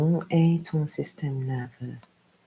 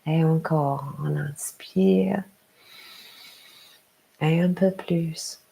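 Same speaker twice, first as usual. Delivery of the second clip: guided meditation. Acted. Yoga teacher to a parent settling down, guided meditation. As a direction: lead them gently into rest, unhurried.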